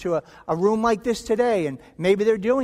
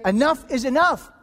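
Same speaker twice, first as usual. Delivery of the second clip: raised, firm voice, higher and louder; indignant confrontation; 4 semitones higher, 4 dB louder than usual. Acted. Betrayed spouse confronting the cheating partner, raised and firm. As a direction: stand up to the cheater at last.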